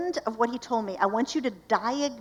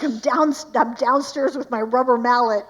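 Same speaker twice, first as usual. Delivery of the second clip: husband pounding wood; 3 semitones higher, 8 dB louder than usual. Retold or imitated. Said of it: "And so he's like".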